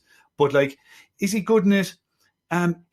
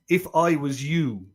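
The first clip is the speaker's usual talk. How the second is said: mock Deep South accent; slower than usual. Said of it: "things he couldn't say in a Deep South accent".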